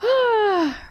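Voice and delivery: high breathy sigh to reset; real sigh of being moved; composing sigh. Real, not acted. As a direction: sigh and pull yourself together. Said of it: "Okay, I'm gathering myself".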